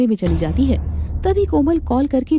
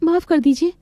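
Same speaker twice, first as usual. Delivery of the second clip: higher, meek servant voice; timid maid; 7 semitones higher than usual. Acted. Maid Manjari answers her mistress, meek and high. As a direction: hand over the tea, eager to please.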